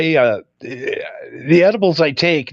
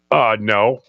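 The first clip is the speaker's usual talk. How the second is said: laughing realization; 7 semitones lower than usual. Retold or imitated. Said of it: "you're like".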